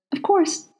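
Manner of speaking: gracious, lifted reply. Acted. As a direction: answer graciously, high and bright. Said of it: "Aziraphale said graciously".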